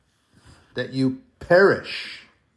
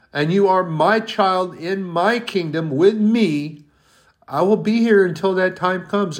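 higher and louder, swelling into a fervent preached promise; God's promise rising; 6 semitones higher, 5 dB louder than usual. Retold or imitated. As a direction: build God's voice into a soaring vow. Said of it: "he shakes his head and he goes".

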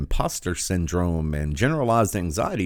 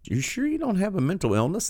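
high, put-on interviewer voice; mocking a recruiter's question in a high voice; mock job interviewer; 11 semitones higher than usual. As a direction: ask it like a prying hiring manager, pitched way up. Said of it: "they're like".

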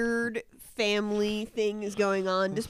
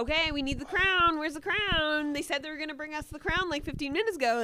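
frantic bridesmaid; 6 semitones higher, faster than usual. Retold or imitated. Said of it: "'Cause she's like".

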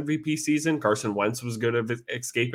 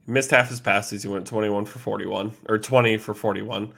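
hoarse, worn-out voice losing its strength. Real, not acted. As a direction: talk through a voice that is going. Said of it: "sorry, I'm losing my voice".

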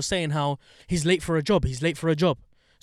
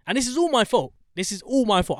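grudging admission; 7 semitones higher, 4 dB louder than usual. Real, not acted. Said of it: "I refuse to accept the fact".

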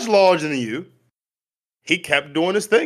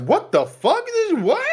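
mock disbelief; 11 semitones higher than usual. Friend imitating his own stunned reaction, climbing high in disbelief. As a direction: pitch leaps high on the last words in mock disbelief.

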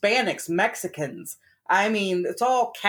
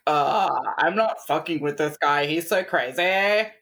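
bad impression; 5 semitones lower than usual. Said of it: "That was a bad impression".

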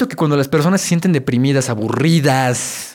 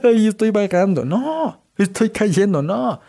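a hammed-up scared cry, pitched up; mock panicky wail; 7 semitones higher, slower than usual. To the listener, mocking the rider who panics on the drop: hammed-up scared cry. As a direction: play-act falling in fear, voice jumping high. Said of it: "No te pones a llorar".

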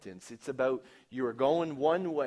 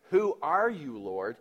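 calling out a question; 7 dB louder than usual. Retold or imitated. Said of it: "instead of saying".

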